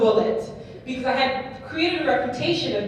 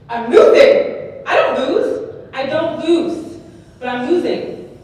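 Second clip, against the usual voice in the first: panicked disbelief; 4 semitones higher, 8 dB louder, slower than usual. Retold or imitated. Panic as rival pulls ahead.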